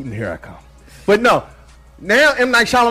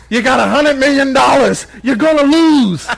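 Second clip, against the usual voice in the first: gruff coach; 8 semitones higher, 5 dB louder than usual. Pretend. Rocky coach parody, Mickey.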